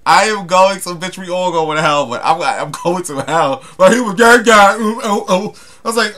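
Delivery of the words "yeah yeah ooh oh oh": loud, raised mock cries; imitating overheard cries. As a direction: mimic someone's cries, high and loud. Imitating what was heard back there.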